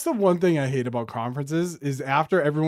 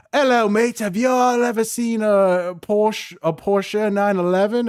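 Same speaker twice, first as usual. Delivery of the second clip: loud, high showman with a mock British accent; mock car-launch hype man; hammed-up British presenter; 6 semitones higher, 4 dB louder than usual. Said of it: "and the guy's like".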